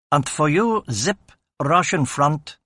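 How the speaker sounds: mock a German officer, stretching the words slowly; comic German accent. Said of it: "he said in a comedic German accent".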